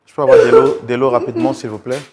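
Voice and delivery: loud, pressing call for help; urgent request. Real, not acted. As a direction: call out urgently across the studio. Host urgently calls for water.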